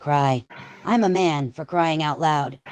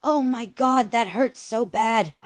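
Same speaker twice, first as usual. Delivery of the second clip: pained cry; 5 semitones higher than usual. Acted. Genitals ripped off.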